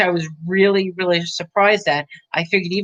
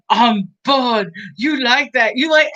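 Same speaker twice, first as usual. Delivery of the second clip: mock villain taunt; 3 semitones higher than usual. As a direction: ham up the creepy taunting villain. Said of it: "And he's like".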